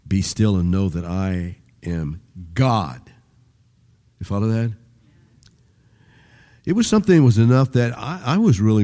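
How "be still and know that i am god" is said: slow, building to a weighted "God" at the end; slow reading ending on a stressed "God". Shown as a demonstration. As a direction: take it slowly and land on "God". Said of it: "you put a different emphasis on each".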